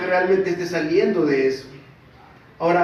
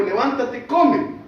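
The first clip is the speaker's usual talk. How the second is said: higher, louder ringing command; angel's command; 8 semitones higher, 5 dB louder, much slower than usual. Retold or imitated. Preacher reads the angel's command to sleeping Elías, emphatic. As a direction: read out the angel's order with force. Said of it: "un ángel le tocó y le dijo".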